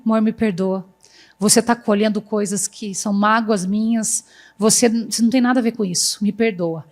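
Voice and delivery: low, softened retold apology; pedido de perdão. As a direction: voice a contrite husband asking forgiveness, understated. Marido arrependido pede perdão, encenado. (marido arrependido, em voz mais grave)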